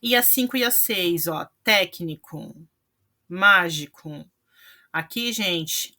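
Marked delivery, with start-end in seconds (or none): 1.6-2.5 técnico with weight on the opening téc; stress on antepenultimate syllable. Shown as a demonstration. Teacher showing students a proparoxítona, técnico stressed on téc. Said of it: "a terceira sílaba é a sílaba tônica". 3.3-4.3 mágico slow, with má punched loud; stress on antepenultimate syllable. Shown as a demonstration. Teacher showing students a proparoxítona, mágico stressed on má. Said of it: "a terceira sílaba é a sílaba tônica".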